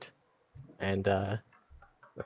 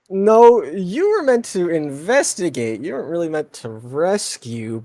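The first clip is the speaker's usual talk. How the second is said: put-on excited boy voice; 7 semitones higher, 7 dB louder than usual.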